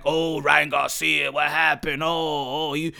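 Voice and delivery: slow, drawn-out mock dismay; mocking complainers. Imitating people upset over Ryan Garcia, mockingly drawn out. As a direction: imitate fussing fans, stretching the words.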